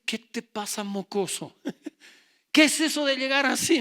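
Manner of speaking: put-on loud scolding of a drunk son; angry father. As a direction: bark at the boy in the doorway. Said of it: "me mira y me dice".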